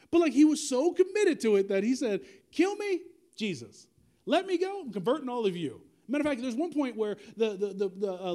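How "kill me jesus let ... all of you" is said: acted-out defiance, leaping high then dropping; defiant retort. Paul to his captors, about converting them all, acted-out defiance. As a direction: throw down a high-pitched dare, then settle.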